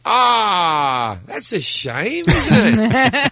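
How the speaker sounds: hiding upset. Retold or imitated. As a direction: put on breezy disappointment for a hero. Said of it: "didn't want a singer to know I was upset".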